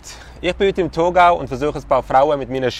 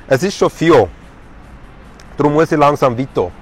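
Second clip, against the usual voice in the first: put-on rhyming pickup lines with a Thurgau accent; mock Thurgau dialect, verse by verse; Thurgau German. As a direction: recite a little love poem in put-on Thurgau dialect. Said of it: "Das Ganze natürlich im Thurgauer Deutsch".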